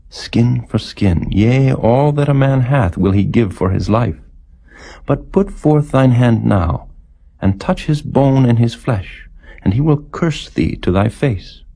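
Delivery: a lightly voiced tempter pressing his point; Satan's challenge.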